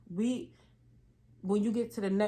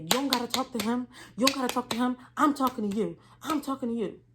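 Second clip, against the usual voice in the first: mock scolding boss; 4 semitones higher than usual. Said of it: "puts her elbows on her knees and said".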